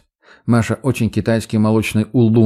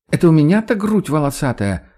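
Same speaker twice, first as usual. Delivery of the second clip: high, playful indignant cry; mock outrage; 6 semitones higher than usual. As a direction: act offended, half joking. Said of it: "В притворном возмущении восклицает Маша". (притворное возмущение)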